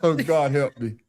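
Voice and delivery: laughing. Real, not acted. Laughing too hard, side hurting.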